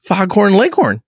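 playfully fed-up demand; mock exasperation. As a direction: finish the mock rant, indignant. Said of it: "And I wanna go".

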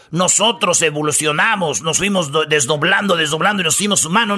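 lightly voiced dumb Darwin quote. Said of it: "Él nunca dijo".

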